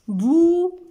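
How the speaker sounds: "Boucher" as a loud high held bou, pause, then cher; syllable by syllable. Shown as a demonstration. Teacher showing two syllables, syllable by syllable. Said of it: "Deux syllabes".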